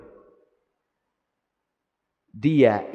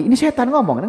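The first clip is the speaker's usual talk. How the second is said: devil's voice; 10 semitones higher, 4 dB louder than usual. Acted. Preacher voicing the devil.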